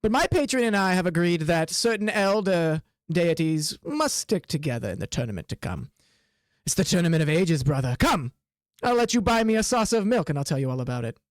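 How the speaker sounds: chuckle, then declaim like a haughty cat; talking cat. Acted. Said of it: "looks up at you and he goes".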